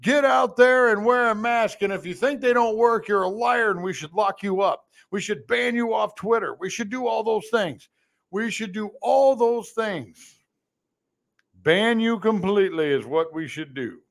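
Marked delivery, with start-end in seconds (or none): 0.0-10.4 mock Hollywood preacher. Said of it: "and said".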